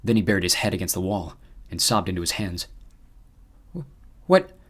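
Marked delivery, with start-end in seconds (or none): 3.7-4.6 high, stammering squeak; a frightened little squeak, much higher. A narrator's reading. Emma in the van, stunned by the news, squeaking high. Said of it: "Emma squeaked".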